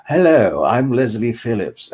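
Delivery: plummy RP elocution accent, lightly put on; Leslie Phillips accent. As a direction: greet in a cultivated, elocution-taught English accent. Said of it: "elocution lessons to get that ... accent".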